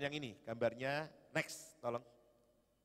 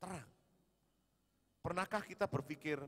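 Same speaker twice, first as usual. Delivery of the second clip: usual speaking voice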